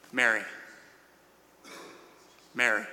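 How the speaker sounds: low, quiet call by name; gentle calling. Retold or imitated. Jesus gently calls weeping Mary by name.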